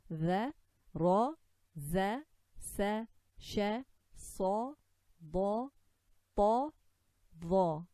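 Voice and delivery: za, sa, la with a as in apple, ra and qa dark; letter drill accent. Shown as a demonstration. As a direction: recite za, sa, la loudly, one held syllable each. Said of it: "this is the accent".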